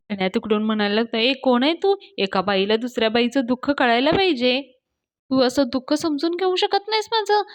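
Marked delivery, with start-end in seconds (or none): 1.2-7.4 lightly voiced indignant girl, rising higher; put-on girl voice. Fake girlfriend scolding Payal, lightly girlish and aggrieved. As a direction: plead a woman's grievance in girlish pitch. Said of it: "मुलगीच्या आवाजात हां मंडळी".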